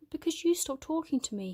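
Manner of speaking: put-on boy blaming his friend, defensive and hurt; hurt retort. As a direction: throw it back, stung.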